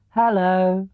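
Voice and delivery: lightly voiced bear greeting; a hint of sleepy Pooh; Pooh's hello. A narrator's reading. Pooh greets Tigger, lightly voiced. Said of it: "said Pooh".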